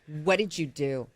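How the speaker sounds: low-key, wary questioning; acted suspicion, kept understated; suspicious question. Wife in bed to kneeling husband, quietly suspicious.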